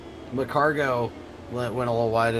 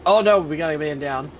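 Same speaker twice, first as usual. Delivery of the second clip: man down shout; 4 semitones higher, 4 dB louder than usual. Real, not acted. Crash spotted in race commentary.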